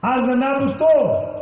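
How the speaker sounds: slow, deliberate "Aznabtu," every syllable spelled out; careful Arabic pronunciation. Shown as a demonstration. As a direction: lay out "Aznabtu," slowly like a teacher. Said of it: "See, the meanings have changed".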